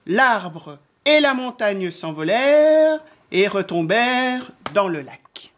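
drawn-out phrases that swoop up as things fly; children's story narration. A narrator's reading. Narrator telling how the wind blew, lilting storytelling. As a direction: tell it with suspense to small children.

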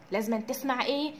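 ordinary talk

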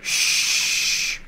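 hushed, slow warning; frantic whisper. Real, not acted. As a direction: hush them urgently, barely voiced. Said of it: "They'll hear us".

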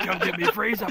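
high, loud retelling of a punchline; exuberant mock shout. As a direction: belt out the quote. Second, louder take of repeated quote.

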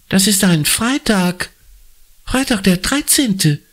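high, blurted-out alarm; blurting out. A narrator's reading. Anna blurts the date out to the teacher. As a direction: burst out with it. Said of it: "platzt Anna heraus".

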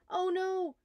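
loud, high indignant cry; steaming germ. A narrator's reading. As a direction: fume as you go down. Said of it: "steamed the germ".

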